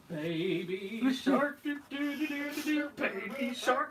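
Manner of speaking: slow, far jazz-singer style sung scat; jazz singer impression. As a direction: croon it slow like a jazz singer. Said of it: "my impression of a jazz singer".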